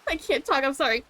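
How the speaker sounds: catching breath midword after swallowing wrong; talking while still choking on a drink. Real, not acted. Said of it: "Really went down the wrong pipe".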